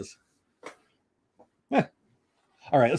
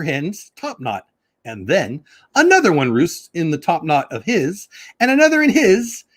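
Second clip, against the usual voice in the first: sing-song Seuss reading, drawn out in places; storybook reading. Acted. Reading Dr. Seuss aloud to viewers, bouncy storybook voice. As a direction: read it like a picture book for kids.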